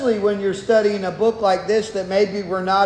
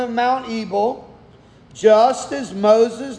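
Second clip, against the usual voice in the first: measured, solemn public Bible reading; scripture reading. Acted. Preacher reads Joshua to the standing congregation, solemn scripture reading. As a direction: read it out formally, phrase by phrase.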